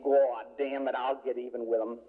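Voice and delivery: lightly imitated Southern Hoosier accent; a touch of Southern Indiana twang in a retold quote. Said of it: "in her Southern Hoosier twang".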